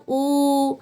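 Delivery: ऊ drawn out evenly; long ऊ. Shown as a demonstration. Teacher demonstrating the big vowel to students, long ऊ. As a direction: hold a long ऊ with rounded lips. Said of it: "और बड़ा ऊ".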